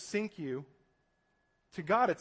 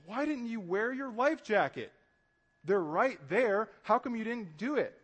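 higher, incredulous questioning; mock-scold them for an obvious oversight; mild exasperated reproach; 3 semitones higher than usual. Rescuer to the people just saved, exasperated reproach.

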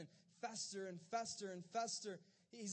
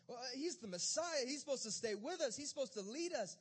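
higher-pitched, flustered disciples; agitated confusion; 4 semitones higher, 4 dB louder than usual. Acted. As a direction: protest in rising alarm. Disciples panic about Jesus leaving.

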